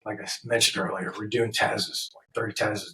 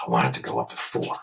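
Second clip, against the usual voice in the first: deep mock client voice; 12 semitones lower than usual. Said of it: "He goes".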